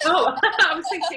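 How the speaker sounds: high bursts of real laughter; laughing. Real, not acted. Laughing at the host's mute mishap, real laughter. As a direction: laugh through the words.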